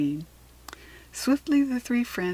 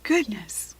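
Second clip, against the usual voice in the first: murmured gratefully; 9 semitones higher, slower than usual. A narrator's reading. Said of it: "Kitty murmured gratefully".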